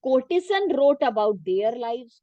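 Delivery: reading a textbook sentence very slowly for students to follow; teacher reading the book aloud, slow and measured. Shown as a demonstration. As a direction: dictate it slowly, word by word.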